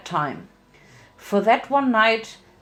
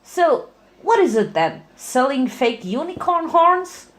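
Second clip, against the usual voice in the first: high, bouncy pony voice; Pinkie voice; 6 semitones higher than usual. Acted. Pinkie Pie character voice.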